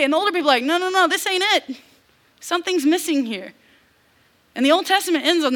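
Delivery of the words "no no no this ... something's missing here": mock lament. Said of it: "they weep".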